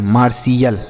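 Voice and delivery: falling "मार्शियल", T replaced by S/SH; correct pronunciation. Shown as a demonstration. Teacher correcting the misreadings, "मार्शियल" without T. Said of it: "ऐसे नहीं".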